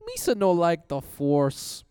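high, loud, slow goofy alien; Jar Jar Binks voice. Acted. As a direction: squawk it like a clumsy alien. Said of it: "do an impression".

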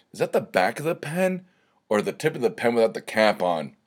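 jumps up high on the question, then settles; half-mock panic about a pen mark; retold alarm. Host retelling to listeners his panic over the pen tip, mock alarm.

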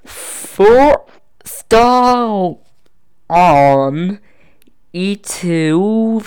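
staccato, one syllable at a time. Shown as a demonstration. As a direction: chop it into separate syllables. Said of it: "I'm gonna break up syllable by syllable".

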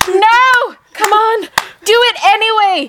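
high, loud cheering shout of encouragement; crowd shouting. Retold or imitated. Audience urging a nervous rookie to stay, loud shouting. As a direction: yell it like a whole crowd egging him on. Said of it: "the audience were like".

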